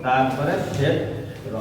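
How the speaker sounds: ক্ষেত্র said slowly and carefully. Shown as a demonstration. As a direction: spell out ক্ষেত্র slowly for the student. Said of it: "প্রত্যেকটা". (ক্ষেত্র ধীরে স্পষ্ট উচ্চারণ)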